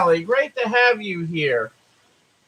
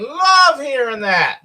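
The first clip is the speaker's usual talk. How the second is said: usual speaking voice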